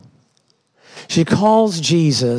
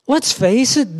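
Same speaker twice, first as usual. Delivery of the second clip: ordinary talk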